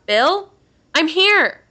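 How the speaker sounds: high, loud holler; calling out. A narrator's reading. Steve at the front door calls to missing Bill, shouting. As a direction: shout it out into the woods. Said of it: "Steve calls out".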